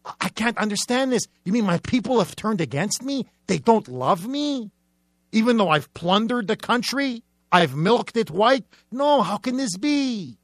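hammed-up bewilderment; mock bewildered dictator. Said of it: "He's bewildered".

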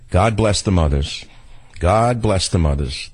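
slow, sincere "God bless the mothers"; slow heartfelt blessing. Real, not acted. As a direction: bless them, slowly and meant. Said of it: "repeated blessing".

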